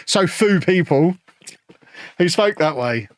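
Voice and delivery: Peterborough accent. Shown as a demonstration. Showing the accent he was mocked for, a light Peterborough drawl. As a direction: drag "few" out as foo, Peterborough style. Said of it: "mocked at school for talking in a Peterborough accent".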